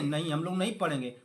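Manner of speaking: sulkily refuse, mocking the class; mock student. Teacher mimicking students who refuse to study, mocking.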